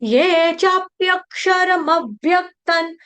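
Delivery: slow, drawn-out chant with long held vowels; Sanskrit verse recitation. Shown as a demonstration. Teacher modelling a verse for students, slow measured chanting. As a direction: chant it syllable by syllable, steadily.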